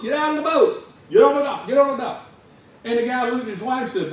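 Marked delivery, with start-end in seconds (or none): 0.0-2.2 high, loud frantic yelling; retold yelling. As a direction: shout the order in a panic. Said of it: "started yelling in his native language".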